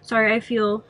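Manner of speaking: blocked nose, stuffy voice; congested. Real, not acted. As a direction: speak through a stuffed-up nose. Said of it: "I'm, like, super congested".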